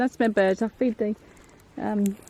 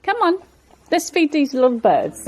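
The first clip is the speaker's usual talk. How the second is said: coaxing a wild bird; 5 semitones higher, 6 dB louder than usual. Real, not acted. Calling birds in.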